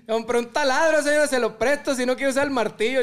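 mock neighborly call, laugh in the voice. Joker offers the neighbor his drill, calling out. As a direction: call over to the lady next door. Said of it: "para allá estoy gritando".

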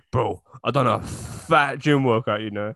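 slow, lazy mock Rion voice; slow mock gym brag; imitating Rion. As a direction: drag it out like Rion bragging. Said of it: "you lot should hear Rion when he does a gym".

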